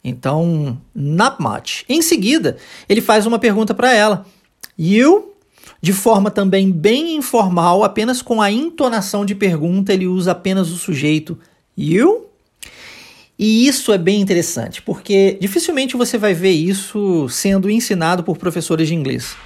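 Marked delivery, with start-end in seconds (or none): none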